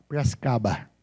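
low-pitched Piracicaba caipira imitation; clipped "P'rascaba" local accent. Shown as a demonstration. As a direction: swallow the syllables like a Piracicaba local. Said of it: "Você viu como ele fala?".

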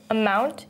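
"amount" drawn out slowly, weight on "mount"; light "a", stressed "mount" in "amount"; stress on second syllable. Shown as a demonstration. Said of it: "you can hear the second syllable is stressed".

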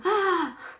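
sharp high gasp for air; real breathless gasp; gasp for breath. Real, not acted. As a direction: suck in a quick breath, laughing. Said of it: "gasping for breath".

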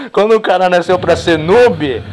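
mock him while cracking up; teasing a noob through laughter; laughing mockery. Real, not acted.

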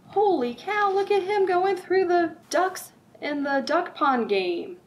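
a big, slow, amazed "holy cow" for little listeners; excited exclamation. Acted. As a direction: wow the kids with what's on the page. Excitedly points at picture.

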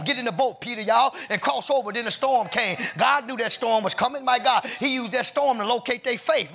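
urgent, rhythmic sermon in full flow; fervent preaching. Real, not acted. Preacher telling how God guides into storms, fervent preaching. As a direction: drive each phrase home to the church.

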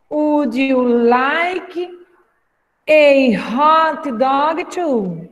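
very slow, split in two chunks; slow chunked teacher read; chunked slow model. Shown as a demonstration. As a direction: break it up for learners to repeat. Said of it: "pra repetir aí em casa".

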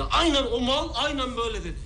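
mocking laugh. Mocking the captain's words.

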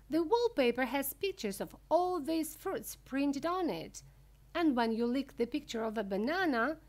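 high, emphatic showman explaining; Mister Wonka, enthusiastic. Acted. Wonka explaining lickable wallpaper, high and enthusiastic.

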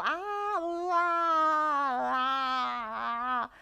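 put-on high, sung-out baby cooing on la; infant cooing. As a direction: coo like a baby playing with vowels. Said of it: "infants go".

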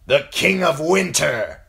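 forceful oath of allegiance; declaring. A narrator's reading. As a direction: declare it boldly to the hall. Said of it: "she declared".

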